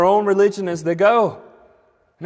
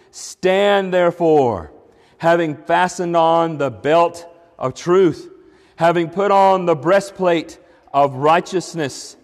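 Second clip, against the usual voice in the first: scripture reading. Acted. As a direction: proclaim each line of the armor slowly. Reads Ephesians aloud.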